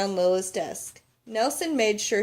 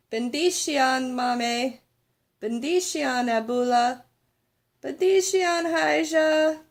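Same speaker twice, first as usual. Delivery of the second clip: louder, higher farewell calls; calling out; 5 semitones higher, 3 dB louder, slower than usual. Acted. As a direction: call the blessings across the room. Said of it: "they both called".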